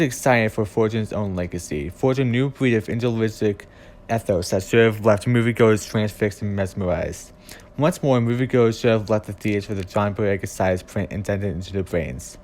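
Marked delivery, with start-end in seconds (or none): 4.6-5.0 "should have" punched out for emphasis; stress on should have. Real, not acted. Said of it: "I place much emphasis". 8.8-9.1 "should have" given firm emphasis; stress on should have. Real, not acted. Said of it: "I place much emphasis".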